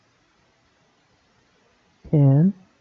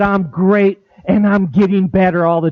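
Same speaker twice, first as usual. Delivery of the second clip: upbeat and bright-spirited; cheerful, confident answer; enthusiastic; 2 semitones higher than usual. Shown as a demonstration. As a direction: sell it with real enthusiasm. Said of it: "I said it with enthusiasm".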